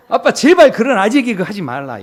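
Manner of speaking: imitating exasperated daughter. Daughter begging dad to stop his dad jokes, mock exasperation. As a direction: plead loudly, mimicking the daughter. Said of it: "저희 딸이".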